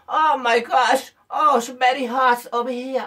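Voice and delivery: drawn-out mock English exclamation; lightly put-on spoiled returnee, slow and whiny; returnee showing off English. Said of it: "llega diciendo". (recién llegado presumido, quejándose en inglés)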